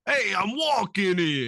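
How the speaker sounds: high, slow New York wiseguy; squawky bouncy Penguin. Retold or imitated. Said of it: "Penguin goes a bit like".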